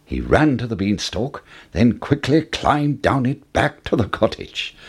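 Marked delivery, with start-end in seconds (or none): none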